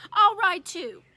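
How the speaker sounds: put-on childish eager shout. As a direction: blurt it out like a kid. Fudge demanding.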